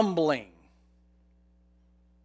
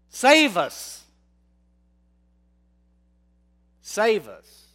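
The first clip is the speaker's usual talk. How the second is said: crying out; 4 semitones higher, 6 dB louder, much slower than usual. Retold or imitated. Israelites crying to God.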